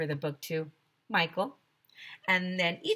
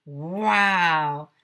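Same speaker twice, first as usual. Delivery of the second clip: louder awed wow; amazed wow; 7 dB louder than usual. A narrator's reading. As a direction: gasp it like amazed kids. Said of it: "we all said".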